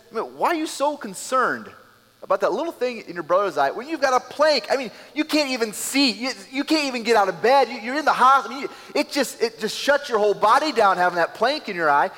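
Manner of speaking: energetic voicing of Jesus. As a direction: preach it as Jesus painting the picture. Preacher voicing Jesus, exaggerating.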